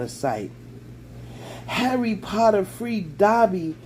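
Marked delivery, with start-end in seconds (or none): 1.7-3.8 shrill elf. A narrator's reading. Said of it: "said the elf shrilly".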